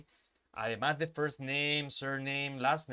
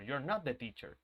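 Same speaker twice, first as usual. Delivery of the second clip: "not" set apart and stressed, a bit softer; emphatic not; 4 dB quieter than usual. Shown as a demonstration. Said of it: "Y ahí lo quiero enfatizar".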